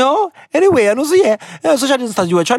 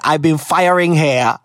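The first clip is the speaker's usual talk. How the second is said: mock slow; 3 semitones lower, slower than usual. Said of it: "Nigga really said".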